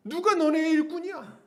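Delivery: volley of high, indignant questions; heated, high-pitched reproach; acted angry rebuke. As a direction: interrogate them like a scolding apostle. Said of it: "이렇게 막 화내면서 하진 않았어요".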